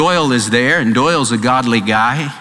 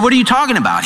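surprised disbelief; 9 semitones higher, much faster than usual. Retold or imitated. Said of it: "They said".

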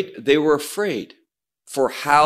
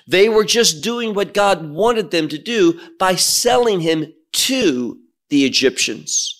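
mock opponent; 2 semitones higher than usual. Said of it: "this is how some will say".

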